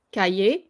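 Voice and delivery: Cahier starting with a hard K; French "ka-yay" for Cahier, C as K; hard K sound. Shown as a demonstration. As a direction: say Cahier as "ka-yay", lifting at the end. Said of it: "it sounds like a K".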